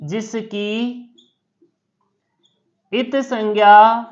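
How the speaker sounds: word by word with long pauses; teacher dictating slowly; slow dictation. Shown as a demonstration. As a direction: spell out the meaning slowly for notes. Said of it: "teacher dictating the meaning".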